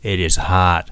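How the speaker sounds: "It is hot" using everything from chest to mouth; full-throated, resonant "hot"; throat resonance. Shown as a demonstration. Teacher demonstrating whole-throat sound, resonant. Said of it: "全部を使った出す音".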